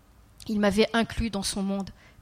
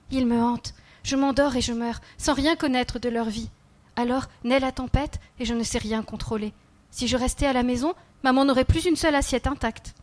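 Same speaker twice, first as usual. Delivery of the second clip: put-on lightly raised child voice, earnest; a small boy confiding, slightly higher; child's voice; 3 semitones higher than usual. The child telling the kneeling man about his dreams, lightly voiced child.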